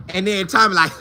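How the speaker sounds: normal talking voice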